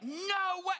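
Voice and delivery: high stunned no way; disbelief. Retold or imitated. Husband seeing wife fall backwards, high stunned. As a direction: gasp it out. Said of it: "I was like".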